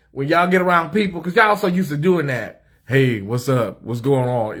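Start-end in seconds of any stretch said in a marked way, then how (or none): 2.9-4.6 lightly lowered butch greeting; mock deep voice. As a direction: imitate them dropping the voice. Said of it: "That's what y'all do".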